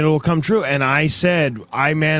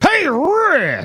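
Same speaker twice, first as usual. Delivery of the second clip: put-on cartoon cowboy voice, higher pitched; 14 semitones higher, 3 dB louder than usual. Joking about how a mascot would talk: Yosemite Sam voice. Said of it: "Yosemite Sam would be like".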